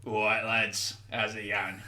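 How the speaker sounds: Cockney orc greeting; lightly voiced Cockney orc; Cockney accent. Shown as a demonstration. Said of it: "give us a preview".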